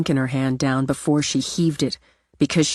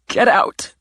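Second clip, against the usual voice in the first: a whispered but forceful get out; strained order; 7 semitones higher, 5 dB louder than usual. Acted. Simone ordering her sister out, whispered and forceful. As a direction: hiss the order under the breath.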